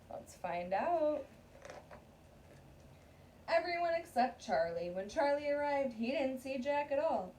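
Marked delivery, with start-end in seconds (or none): 3.5-7.3 steady read-aloud storytelling voice; story narration. Acted. Teacher reading a picture book to her class, read-aloud narration.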